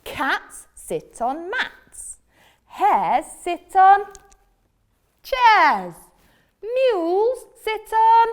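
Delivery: slow, loud lecturing cat; bossy cat. Acted. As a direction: recite the rule like a smug cat. Cat reciting the rule loudly.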